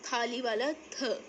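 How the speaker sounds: slow aspirated थ as in थाली; sounding out थ. Shown as a demonstration. Teacher modelling थ for Sindhi learners. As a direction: draw out थ with a puff of air. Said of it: "चार नुक्ते को वैसे ही पढ़ेंगे थ".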